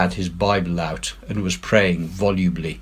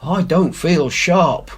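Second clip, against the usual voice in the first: growled line; 9 semitones higher, 3 dB louder, slower than usual. A narrator's reading. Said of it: "growled Morgan".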